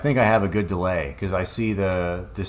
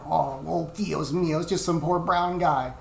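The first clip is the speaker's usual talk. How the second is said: much higher, exaggerated pleading with a mock Spanish "Dios mío"; mocking a man who plays the helpless victim, pitched way up; hammed-up mock victim; 8 semitones higher than usual. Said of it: "it's like".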